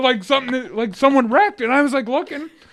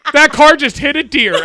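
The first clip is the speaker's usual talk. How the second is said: alarmed exclaim; 4 semitones higher, 9 dB louder than usual. Retold or imitated. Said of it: "Then Sharon goes".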